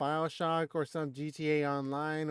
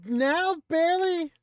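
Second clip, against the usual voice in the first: laughing through the words; 12 semitones higher, 6 dB louder, slower than usual. Real, not acted. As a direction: laugh as you speak. Laughing at the question.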